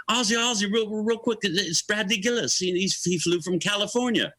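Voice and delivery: politely grab a busy star's attention; Sharon introducing a guest. Retold or imitated. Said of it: "And Sharon goes".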